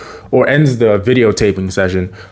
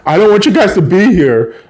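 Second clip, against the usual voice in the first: higher, mildly angry dismissal; retold stern rejection; 7 semitones higher, 4 dB louder than usual. Mom turns Carly and Spencer away, stern. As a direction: send them away in a raised voice.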